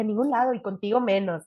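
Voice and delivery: haughty put-down; mock dignified refusal; dignified brush-off. Snubbing the flirting cab driver, haughty. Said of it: "me hice la digna".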